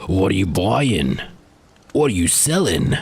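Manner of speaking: a lightly put-on shopkeeper voice; game merchant impression. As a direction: echo the merchant's catchphrase in a shady trader's voice. Quoting the game's merchant.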